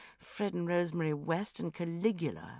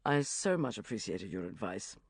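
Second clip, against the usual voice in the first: lower, earnest thanks; 6 semitones lower than usual. A narrator's reading. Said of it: "very earnestly".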